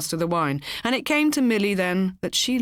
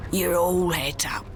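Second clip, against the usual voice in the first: soothing. A narrator's reading. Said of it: "the man said soothingly".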